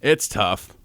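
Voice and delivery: long pauses, real tears held in; quiet, breaking up; soft, barely keeping it together; choked up. Real, not acted.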